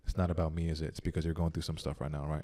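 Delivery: soft, low, understanding voice; calmed down. Retold or imitated. Retelling talk with an upset friend, calmed down and soft. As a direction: gently retell a calming reassurance. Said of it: "I calmed down and I went".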